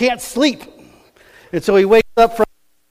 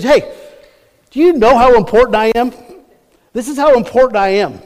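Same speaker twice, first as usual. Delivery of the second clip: higher, louder bragging; a proud man showing off, louder; boastful Haman; 7 semitones higher, 6 dB louder than usual. Retold or imitated. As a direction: puff up and brag to your friends. Haman boasting to wife, friends.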